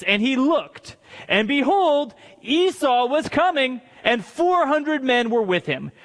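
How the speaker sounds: measured, emphatic story reading; declaimed Bible narration; Scripture reading. Acted. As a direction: read it out deliberately to a congregation. Reads Scripture aloud.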